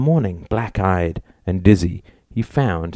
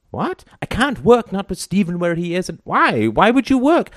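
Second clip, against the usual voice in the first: much higher, alarmed protest; startled; 10 semitones higher than usual. Acted. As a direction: jump up in disbelief.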